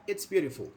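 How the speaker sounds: "It's beautiful" with a falling tune; falling intonation. Shown as a demonstration. Teacher shows students a statement needing no response, falling intonation. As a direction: let "beautiful" drop at the end, like a plane landing. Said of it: "It's falling".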